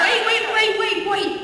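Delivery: loud, high repeated stop; urgent shout. Acted. Friend halts the spell-casting with urgent shouts. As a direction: cut everyone off.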